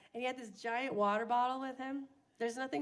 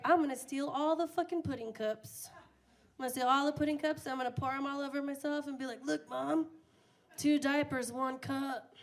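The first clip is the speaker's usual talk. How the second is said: gleeful threat; 3 semitones higher than usual. Retold or imitated. Taunting mom about the pudding cups, fast and giddy. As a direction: get giddier as it goes.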